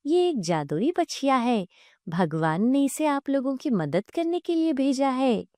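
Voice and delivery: lightly voiced, reassuring divine cow; calm their fears with swooping intonation; kindly talking cow. Talking cow reassuring the frightened family, gently earnest.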